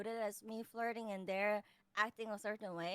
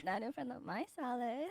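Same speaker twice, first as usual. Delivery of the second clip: breathy voice; 4 dB quieter than usual. Shown as a demonstration. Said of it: "to be different than".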